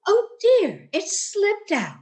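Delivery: high, loud gasp of mock surprise. Landlady pretending her gift slipped out, mock surprised. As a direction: fake being caught out.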